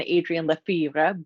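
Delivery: light French accent on the name. Shown as a demonstration. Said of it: "I said it with a little French accent".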